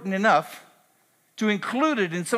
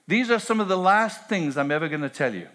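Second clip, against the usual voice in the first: rising, urgent paraphrase of Jesus, higher and louder; voicing Jesus; 3 semitones higher, 3 dB louder than usual. Pastor voicing Jesus to the disciples, urgent and building. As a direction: build until the final command rings out. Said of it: "Notice Jesus says".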